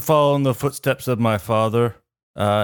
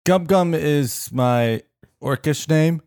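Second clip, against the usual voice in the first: slow, higher dopey half-orc; dim half-orc voice; 5 semitones higher, slower than usual. Acted. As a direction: drag it out like a slow-witted orc.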